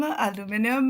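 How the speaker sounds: rising, teasing "Aluminum?" with a flat a; mock Nick aluminum. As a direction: mimic a friend's questioning aluminum. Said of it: "He's like".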